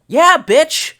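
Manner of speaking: cocky shout of pride; hyped brag. Acted. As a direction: crow it out proudly. Brags about swords.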